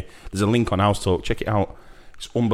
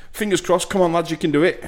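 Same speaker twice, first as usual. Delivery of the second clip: excited cheering; 9 semitones higher than usual. Real, not acted. Cheering on the team.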